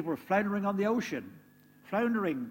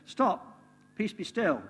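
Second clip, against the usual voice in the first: higher, louder command; commanding the storm; 5 semitones higher, 3 dB louder, slower than usual. Acted. Jesus commanding the storm to stop, louder. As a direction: order the waves to stop. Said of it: "stood up and said".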